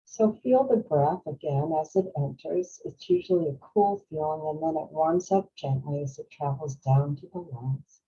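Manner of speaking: unhurried guiding voice with long pauses; guided meditation. Real, not acted. Host guiding workshop attendees through breathing, calm meditation voice. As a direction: ease them gently through each breath.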